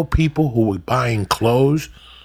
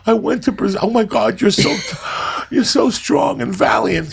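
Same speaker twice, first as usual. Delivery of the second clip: mock gushing friend; 7 semitones higher than usual. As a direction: swoon over the traveller in a high voice. Mocking friends bragging at Starbucks.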